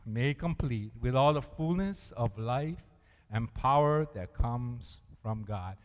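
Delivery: slow, deliberate scripture reading; slow reading aloud. Shown as a demonstration. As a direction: lay the words out for the congregation. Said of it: "what does it say there?".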